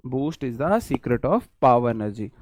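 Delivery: slow, drawn-out ad jingle delivery; ad slogan. Retold or imitated. Teacher recalling a TV ad, slow jingle read. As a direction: savour it like an old TV ad tagline. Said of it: "आपने सुना होगा".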